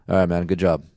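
imitating a mildly pleased well-wisher; understated, matter-of-fact praise; low-key congratulations. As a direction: toss off a casual congratulation. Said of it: "way less excitement around the pits".

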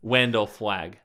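Wendell Flagg with a W for the R; mocking W pronunciation. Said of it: "all those W's super, super bugged me".

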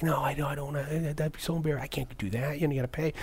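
wife too embarrassed to approach; shy refusal. Retold or imitated. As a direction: shrink back from asking. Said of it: "And she's like".

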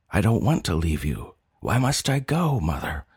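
wail. Acted. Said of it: "I wail".

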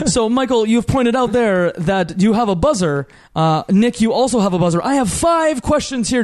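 upbeat showman host; game show host voice. Acted. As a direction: announce it like a TV quiz host. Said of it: "I've gone to the game show host voice".

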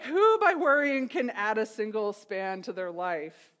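mock the worriers with a bit of snark; snarky. Preacher retelling what Jesus says about worry, snarky. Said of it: "here he gets a little snarky".

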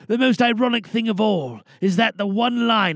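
lightly voiced old insurance man, reflective then rallying; retired insurance man's speech. Retired insurance man rallying the crowd, rising from reflective to defiant. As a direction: speak to the crowd like a man who finally chose a side. Performs the prepared monologue.

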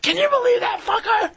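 high shouted complaint; mock outrage. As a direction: rant at the runaway dealer. Woman cursing the fled dealer.

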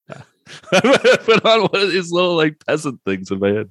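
mock Mary voice. Podcaster mocking the heroine's peasant kerchief, in a high cutesy voice. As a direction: play her as a cutesy high girl. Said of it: "She's like".

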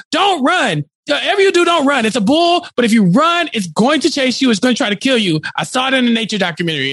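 mild mock yell, pitched high at first; Ryan Reynolds yelling. Podcaster retells bullfight warning to The Rock, mock yelling. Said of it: "Ryan Reynolds is yelling".

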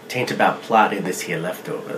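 low, drawling gold-rush prospector; old prospector. Pretend. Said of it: "That was the old prospector we hired".

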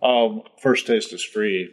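slow, low sly dealer pitch; slow dealer line. Acted. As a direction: lean in and offer it slowly.

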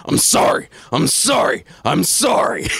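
hammed-up repeated shouted sorry; mock the over-the-top apology; a lightly done Alex Jones yelling sorry. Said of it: "the patented Alex Jones apology".

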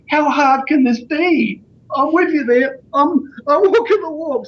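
high, exuberant self-talk; exclaiming in delight. Retold or imitated. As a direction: act out being thrilled with the plan. Voicing his delighted thoughts at pub.

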